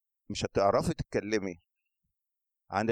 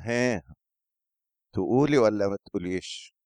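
teasing prompt; 6 dB louder than usual. Pretend. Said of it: "بيدور كده وبيبص لها".

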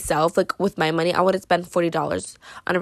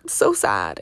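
much lower, slow mock-sad drop; 12 semitones lower than usual. Vlogger joking about the lost bracelet, low slow mock sadness. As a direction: drag it down low and slow, fake mourning. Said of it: "joking around saying that".

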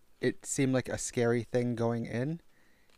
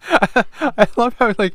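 laughing drawl; 11 semitones higher, 12 dB louder, slower than usual. Real, not acted. Laughing slow drawn-out start.

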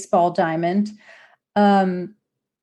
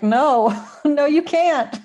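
giggling through a mock refusal; mock no, breaking into laughs; laughing quote; 5 semitones higher, slower than usual. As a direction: laugh while refusing, a little higher. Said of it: "And they're like".

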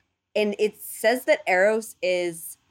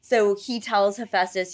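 ordinary talk, nothing marked

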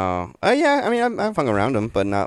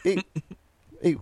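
higher-pitched put-on Cholo voice; Cholo Mexican accent; 10 semitones higher than usual. Guest demonstrating Cholo talk to host, Cholo accent. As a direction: call out Cholo-style, pitched up. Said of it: "speak fast and kinda".

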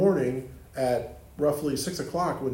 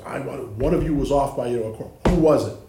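louder, harsh demand from a tyrant conductor; mock screaming director; 7 dB louder than usual. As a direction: bark it at the band like a furious bandleader. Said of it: "he's screaming".

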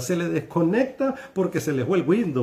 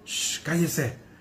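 soft hushing, the last words slow; mild scolding shush; shushing crowd; 6 dB quieter, slower than usual. Acted. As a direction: hush the beggar down. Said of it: "muchos le reprendían".

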